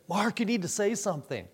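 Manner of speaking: retold nervous urging. Wife pressing Mark to warn a man, lightly acted nerves. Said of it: "she got real nervous".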